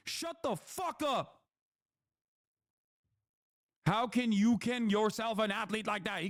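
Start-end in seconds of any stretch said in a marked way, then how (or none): 0.1-1.4 slow dismissive. Real, not acted.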